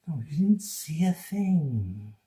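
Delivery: slow, teasing put-on voice. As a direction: coax them to forget it. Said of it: "teasing slow voice".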